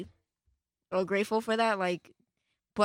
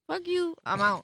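defiant quote; 7 semitones higher than usual. Retold or imitated. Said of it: "because I'm like".

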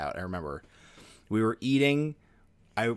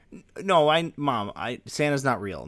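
imitating little sister; 4 semitones higher, 3 dB louder than usual. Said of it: "my sister says, like".

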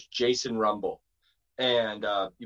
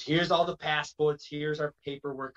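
mild imitation Boston accent; Jason Rumble; 3 semitones higher than usual. Wrestler presenting paperwork at the border, mild Boston accent. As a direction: hand it over in a light Boston accent. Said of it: "so he talks like this".

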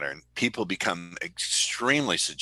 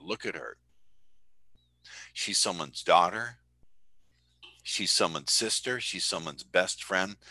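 calm reassuring; 3 dB quieter than usual. Retold or imitated. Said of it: "I said".

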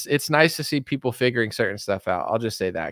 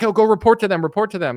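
mocking sing-song quote; 8 semitones higher, 4 dB louder, faster than usual. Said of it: "you're like".

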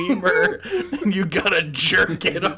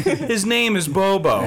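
news anchor voice. Pretend. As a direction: introduce him like an anchor. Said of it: "I sound like a fucking news anchor".

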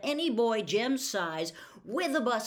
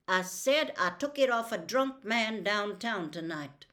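louder, pointed restatement; firm repeat; 5 dB louder than usual. Acted. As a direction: shut the question down. Tate repeats his claim firmly.

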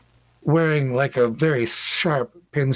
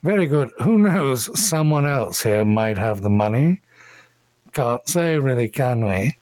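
cultured elven gentleman. Acted. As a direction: answer with courteous, cultured formality. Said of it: "in very cultured common says".

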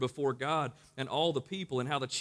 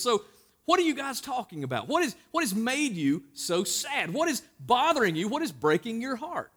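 a hint of a caring Jesus, higher and slowed; gentle questioning Jesus; 8 semitones higher, 5 dB louder than usual. Jesus voiced asking the disciples.

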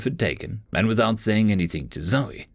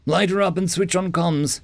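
higher, pressing command; urgent order; 7 semitones higher than usual. Acted. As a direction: bark the instructions. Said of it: "Nate ordered".

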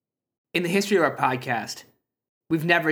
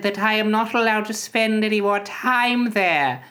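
put-on whiny kid voice; 5 semitones higher than usual.

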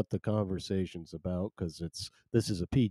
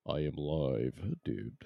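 softer and slower, drawn out; quiet, slow repeat; 6 semitones lower, 8 dB quieter, slower than usual. Shown as a demonstration. Host repeating he is live, now hushed and slow. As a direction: say it again, hushed and unhurried.

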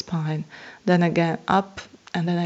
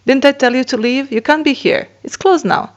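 higher and louder stern scolding; scolding lady again; 7 semitones higher, 6 dB louder than usual. Retold or imitated. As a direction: snap at the intruder who came back.

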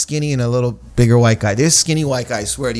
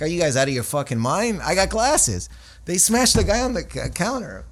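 incredulous complaint, pitch climbing high; mock outrage; 5 semitones higher than usual. Comic complaining to his agent about a role, mock outraged. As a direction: act out indignant disbelief, voice rising.

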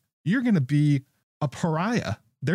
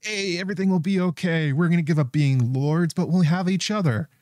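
higher, airy mock of a naive lover; mocking lovesick knight; 5 semitones higher than usual. Host mocking the knight's dumb plan, higher naive sing-song. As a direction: lightly play the dreamy fool. Just being like.

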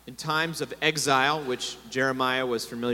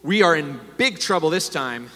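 gasping for breath; 3 semitones higher, 4 dB louder than usual. A narrator's reading. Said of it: "gasping for breath".

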